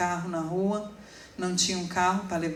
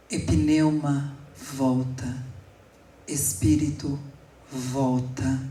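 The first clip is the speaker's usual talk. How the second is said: commanding prayer; 4 semitones lower, much slower than usual. Retold or imitated. Mother prays over unconscious son.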